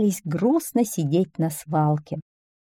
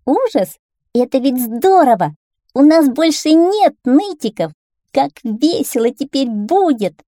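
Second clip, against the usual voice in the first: high, loud excited cheer; child shouting; 7 semitones higher, 6 dB louder than usual. A narrator's reading. A child cheering that the whiners are gone, shouting. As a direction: cry out in delight like a child. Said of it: "кто-то из детей стал кричать".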